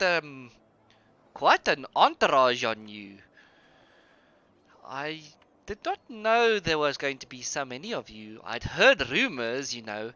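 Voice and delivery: a touch of a sweet-talking barkeep; tavern keeper Hannah's accent. Acted. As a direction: welcome the troupe warmly in a put-on accent. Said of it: "let me get this accent again".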